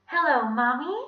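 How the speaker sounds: put-on high, loud child's voice; Ronnie. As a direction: greet a parent as a sweet little kid. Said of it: "he said in Ronnie's voice".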